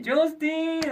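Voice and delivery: high, loud calling a name; mother calling out. Retold or imitated. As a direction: shout the name like a mom. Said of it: "하고 부르셔야 돼요".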